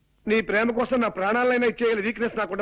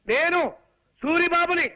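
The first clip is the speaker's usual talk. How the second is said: spaced-out louder self-introduction; 3 semitones higher, slower than usual. Acted. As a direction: say it louder so a hard-of-hearing listener catches it. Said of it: "అంత గట్టిగా అరవకు నాయనా". (గట్టిగా చెప్పడం)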